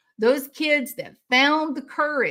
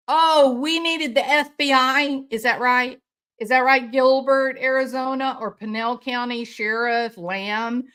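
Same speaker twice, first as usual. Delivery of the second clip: raised, mocking outrage at the sheriff; angry sarcasm. Real, not acted. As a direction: scoff at them, voice climbing. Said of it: "because I got angry".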